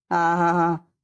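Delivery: low, teasing "ha ha"; mocking laugh. Grandfather teasing his sulking grandson about the bike, mocking laugh. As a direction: laugh to make fun of the boy. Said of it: "ಈ ತಾತ ನೋಡು ಹೆಂಗ್ ಆಡ್ಕೊಳತ್ತೆ".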